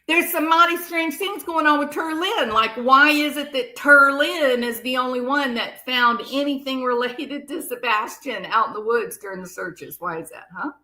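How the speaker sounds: sarcastic impression of a suspicious man; mocking imitation. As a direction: parody him to make fun of the name. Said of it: "Terlin sort of sounds like cooter".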